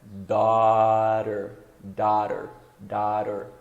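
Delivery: "daughter" as "dador", gh silent. Shown as a demonstration. Teacher showing "daughter" with silent gh. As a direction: say "daughter" with flapped t, no gh. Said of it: "o G H normalmente ele é mudo".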